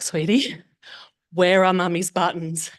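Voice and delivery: put-on slow, gentle coaxing question to a child; sweetly asking. Mother gently asking her small daughter for the buttons, sweetly. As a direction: coax it out of her kindly, not yet cross. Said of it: "And I was like".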